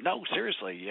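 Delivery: calm sincere answer; earnest reply. Retold or imitated. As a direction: insist gently that you mean it. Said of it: "and I said".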